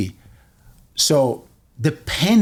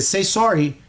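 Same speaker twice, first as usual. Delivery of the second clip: higher-pitched mock order; retold command; 5 semitones higher than usual. Cousin pinning the bully, demanding an apology. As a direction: imitate a firm demand, pitched up.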